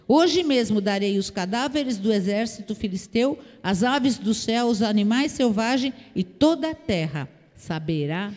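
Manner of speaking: firm scripture declaration, slowing at the close; word of power. Acted. David answers the Philistine who challenged him, a firm declaration. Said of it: "liberou pra ele uma palavra de poder".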